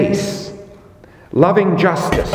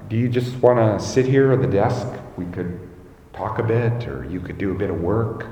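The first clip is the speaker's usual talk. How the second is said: imitating a calm, unruffled principal, softer and lower; really calm; 3 semitones lower, 5 dB quieter than usual. Principal offering an angry visitor a seat, really calmly. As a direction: say it low and easy, taking none of it personally. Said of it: "he would just say, really calmly".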